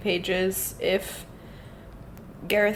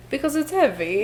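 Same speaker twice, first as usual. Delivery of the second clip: laughing; 5 semitones higher than usual. Real, not acted. Joke line, laughing.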